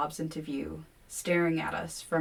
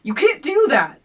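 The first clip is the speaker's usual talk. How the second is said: much higher, louder, out of control; shrill; 9 semitones higher, 13 dB louder than usual. A narrator's reading. Narrator to Kevin, panicked high loud cry. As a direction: lose control of the voice. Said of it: "My voice goes shrill beyond control".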